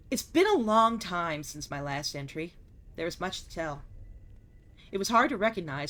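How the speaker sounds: measured, solemn journal reading; journal narration. Acted. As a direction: read it like a diary entry. Reads game journal aloud.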